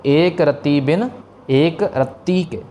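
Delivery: first रत्ती soft, second रत्ती with doubled त pressed; slow, contrast the two रत्ती; soft then pressed. Shown as a demonstration. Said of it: "pronunciation से". (पहला रत्ती नरम, दूसरा रत्ती दबाकर)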